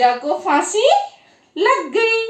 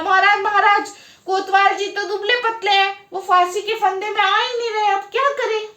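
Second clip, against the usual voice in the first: higher-pitched, worried appeal; urgent appeal; 5 semitones higher than usual. Acted. Soldiers tell the king the noose won't fit, urgent appeal. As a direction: appeal to a ruler in a raised pitch.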